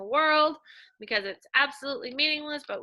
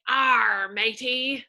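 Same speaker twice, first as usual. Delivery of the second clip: pirate; 3 dB louder, much slower than usual. Retold or imitated. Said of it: "pirates say".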